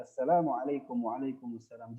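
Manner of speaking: salam dan jawaban dengan lafal Arab utuh; Arabic pronunciation. Shown as a demonstration. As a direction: ucapkan seperti orang Arab, lengkap. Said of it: "usahakan seperti itu diucapkannya". (lafal Arab yang dianjurkan guru)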